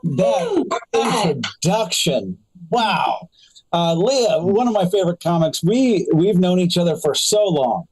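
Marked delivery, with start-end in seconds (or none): 0.0-3.3 surprised. Real, not acted. Reacting to the big introduction.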